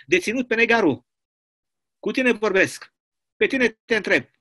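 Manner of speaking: a hint of a bullying commandant; stern commandant. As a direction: accuse him like a prison boss. Commandant lists the laughter.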